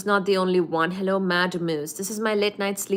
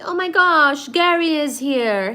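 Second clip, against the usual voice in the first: excited; 6 semitones higher, 5 dB louder than usual. Real, not acted. Greets a viewer, excited.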